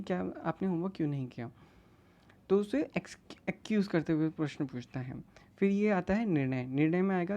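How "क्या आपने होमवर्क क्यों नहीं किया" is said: mildly gentle, polite question; affectionate asking. Acted. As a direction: ask kindly, without any taunt. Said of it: "प्यार से सवाल नहीं पूछता". (प्यार से पूछा सवाल)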